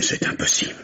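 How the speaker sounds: disbelief, barely voiced; whispered, as if winded by the news; stunned whisper. Husband told of the killing, shocked whisper. Husband hears of wife's death.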